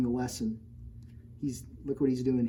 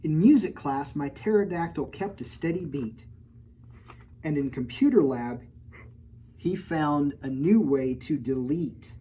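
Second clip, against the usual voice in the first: rhyming picture-book read-aloud; story narration; 3 dB louder than usual. A narrator's reading. Reading a rhyming storybook to children, lilting. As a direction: read the rhyme to the kids. Reads next page.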